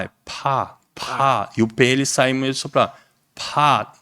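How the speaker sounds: pá, the vowel between O and A; pá with an aspirated P; open O sound. Shown as a demonstration. Teacher drilling students on the pod vowel. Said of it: "aquele som do O".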